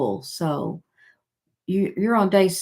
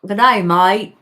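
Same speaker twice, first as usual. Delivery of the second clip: loud, punchy Australian greeting; Aussie accent; 7 dB louder than usual. Shown as a demonstration. Showing off to a viewer who loves it, Aussie accent. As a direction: belt it out in a put-on Aussie accent. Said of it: "You love my Aussie accent?".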